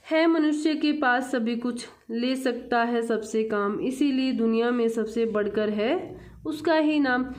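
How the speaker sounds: measured classroom verse reading; poem recitation. Acted. Teacher reads the Hindi poem to children, poem recitation. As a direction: read the verse out clearly, line by line.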